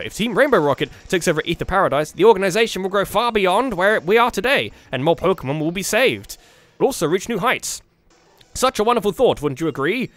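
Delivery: lightly voiced smug schemer; villain's speech. Faber pitches the takeover to the heroes, lightly smug. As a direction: make a grand, self-satisfied pitch.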